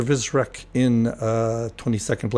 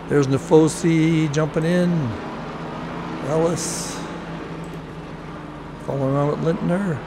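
slightly raised, lively commentary voice; live race play-by-play; 4 semitones higher than usual. Real, not acted. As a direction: follow the cars corner by corner, keenly.

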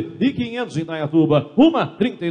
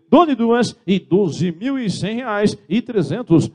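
auctioneer call; 5 semitones higher, slower than usual. Real, not acted. Auctioneer calling going twice.

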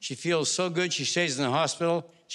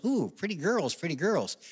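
parrot voice; 3 semitones higher than usual. Acted. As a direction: lightly play the parrot cooing at the lady. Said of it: "The parrot goes".

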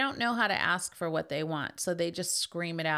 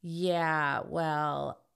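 guilt-tripping mom; slower than usual. Retold or imitated. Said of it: "makes you feel guilty to manipulate you".

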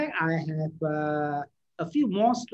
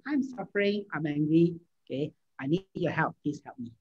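calmly asking a loved one for help; calm request. Shown as a demonstration. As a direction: gently admit the hurt and ask. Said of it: "Calm down, relax".

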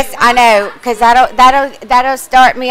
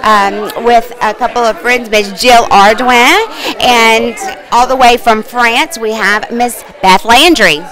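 red carpet host. Acted. Mock red carpet broadcast.

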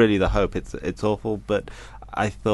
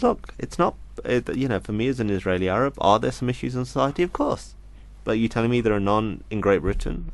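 retold objection, voice pushed higher; indignant local man; 3 semitones higher than usual. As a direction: mimic his incredulous higher pushback. Retold Israeli Arab man objecting.

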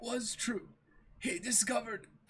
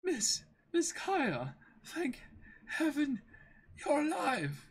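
weak relief; 6 semitones higher, slower than usual. Acted.

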